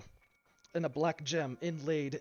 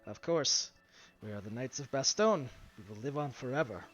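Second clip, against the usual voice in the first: proud doomed knight; 4 semitones lower, faster than usual. Acted. Knight bidding the elf farewell, lightly voiced proud resolve. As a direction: lower voice, rushing proud farewell.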